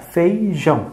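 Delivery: FEIJÃO split gently into FEI and JÃO; slow syllable demo. Shown as a demonstration. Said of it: "A gente fecha o olho e fala devagar".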